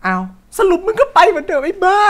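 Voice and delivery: loud, high yell at the character; frustrated shout. Real, not acted. Gamer yelling at his character, high shout. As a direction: shout at him for leaving anyway. Streamer yells at game character.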